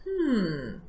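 long, falling hum; pondering hum; musing to himself. Acted. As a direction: mull it over like a fox. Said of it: "the fox said to himself".

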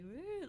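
soft, high rising "woo"; mimicked zoning-out "woo". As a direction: imitate someone drifting off, high and quiet. Imitates comedian zoning out.

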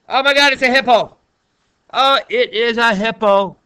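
high, loud, fast burst of surprise; delighted shock; surprised. Real, not acted. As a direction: gasp at the hippo on the screen. Teacher surprised by hippo picture.

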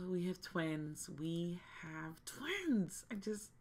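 whispered in disbelief, slowing down; stunned whisper. Real, not acted. Gamer whispering to viewers about her Sim twins. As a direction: breathe it out in shock.

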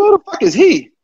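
high, incredulous retold retort; indignant retort.

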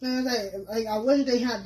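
eating while speaking; talking while chewing. Real, not acted. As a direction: mouth partly full. Seen 0: Left woman bites food just before, talks with jaw moving.

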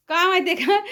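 ordinary delivery

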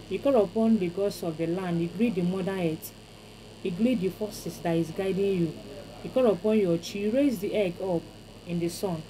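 chanting invocation to the gods, each line stressed and falling; rhythmic incantation calling on the chi; ritual prayer. Acted. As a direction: pray it out like a village priest.

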